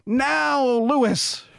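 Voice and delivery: high-pitched shout over engine noise. Acted. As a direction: yell it over the roaring wind. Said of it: "he shouted over the engine noise".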